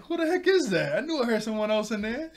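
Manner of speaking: high, loud hammed-up shouting; suspicious yell. Beast Boy heard someone else in there, suspicious yell. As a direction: holler accusingly through the door. Acted yell from outside door.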